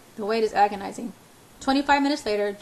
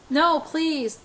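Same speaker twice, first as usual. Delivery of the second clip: higher-pitched, urgent plea; pleading; 7 semitones higher, 4 dB louder than usual. A narrator's reading. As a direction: beg him to stop. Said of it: "I plead with him".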